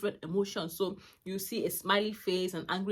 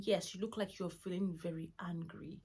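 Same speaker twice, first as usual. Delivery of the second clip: soft whisper; 6 dB quieter than usual. Retold or imitated. Mother whispering to her upset son, soft whisper. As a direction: breathe it softly to calm him. Mother softly naming son's anger.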